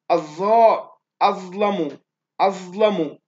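"أظلم" loud and measured, with a thickened "ظ"; heavy ZA. Shown as a demonstration. Teacher gives students an example, "أظلم" with loud, heavy "ظ". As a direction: fill the mouth on "الظاء" and the "ظ" of "أظلم". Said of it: "هذه سبعة أحرف حروف التفخيم".

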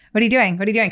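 mild panicked questioning through a fixed smile. Acted. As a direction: keep smiling while you nervously repeat it. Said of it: "Keeping my smile".

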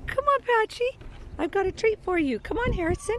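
high, coaxing call across a field; calling animals. Real, not acted. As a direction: call them over with a treat.

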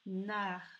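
"Nard" alone with a held n; second syllable "Nard" on its own; isolated syllable. Shown as a demonstration. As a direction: lengthen the n opening "Nard". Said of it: "dans la deuxième syllabe".

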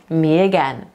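me again run together as 'miyagen', low; low, joined-up me again; linked words. Shown as a demonstration. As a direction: glide from me into again without a break. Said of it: "to się połączy nam w jedno".

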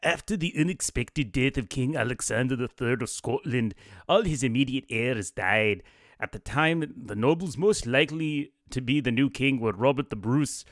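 hammed-up Scottish accent for a nobleman; a cheesy fake Scottish accent; bad Scottish accent. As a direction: put on a rough Scottish accent as the Scottish lord. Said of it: "really bad Scottish accent".

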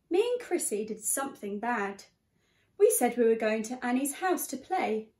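put-on lively read-aloud to a class of children; story reading. A narrator's reading. Teacher reading The Bog Baby to her class, lively storytelling. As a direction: tell it like a bedtime picture book.

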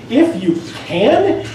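slow, drawn-out, doubting "If you can"; Jesus echoing the father, mildly sarcastic and slow. Retold or imitated. Jesus throws the father's doubt back, mildly sarcastic. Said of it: "you can hear almost the sarcasm in his voice".

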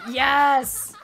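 loud, high, drawn-out amazed shout; ecstatic disbelief. Real, not acted. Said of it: "I'm so happy right now".

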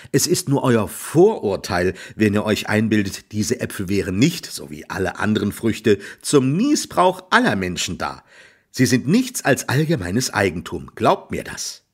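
a hint of cocky youth; smug young Jack. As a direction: argue cheekily like a know-all. Jack argues with farmer.

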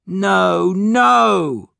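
high cry of protest, rising; horrified cry. A narrator's reading. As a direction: cry out against the news. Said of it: "cried Larry".

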